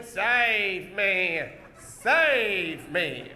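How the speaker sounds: mock plea, vowels stretched; a hint of helpless heroine; lightly acted damsel. Shown as a demonstration. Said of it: "you run backwards going".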